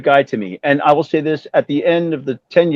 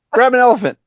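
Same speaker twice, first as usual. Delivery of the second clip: imitating Vince; 10 semitones higher than usual. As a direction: invite him in like a grand rock-star host. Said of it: "he goes".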